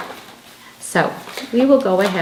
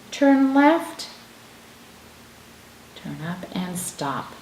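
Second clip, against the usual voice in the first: slow, deliberate letter-writing directions; step-by-step instructions; slower than usual. Shown as a demonstration. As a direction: call each stroke slowly. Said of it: "what to say and how to write".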